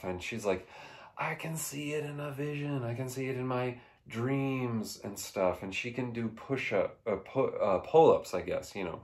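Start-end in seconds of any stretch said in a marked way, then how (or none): 1.2-5.6 mock-eerie quote, much softer than usual; hushed visionary. Retelling Sarah Connor's visions in the film, hushed. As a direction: drop the volume as if recounting a vision.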